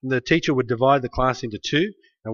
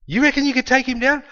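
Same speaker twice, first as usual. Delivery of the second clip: much higher skeptical king; incredulous question, pitched up; doubtful king; 10 semitones higher than usual. Retold or imitated. King doubting the boy, high incredulous voice. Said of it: "the king said to him".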